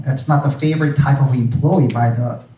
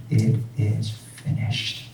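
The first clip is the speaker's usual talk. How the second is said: slow whisper; 3 semitones lower, 8 dB quieter, much slower than usual. Acted. Preacher reminds restless listeners of Jesus's words, slow whisper. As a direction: whisper it very slowly, almost breathless with awe.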